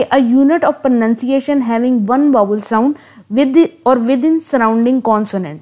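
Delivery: reads the definition word by word, very slowly; slow dictation. Acted. Teacher dictating a definition of meter to students, very slow. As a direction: spell it out slowly so students can write it down.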